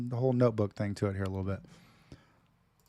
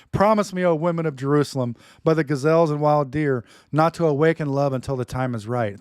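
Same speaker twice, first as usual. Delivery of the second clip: dramatic reading; 3 semitones higher, 5 dB louder than usual. Acted. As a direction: declaim it like a lover's poem. Reads love poem dramatically.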